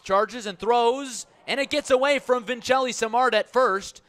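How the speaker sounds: surging radio call of an error; excited play call. Real, not acted. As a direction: call the wild throw at full pitch. Live call of throwing error.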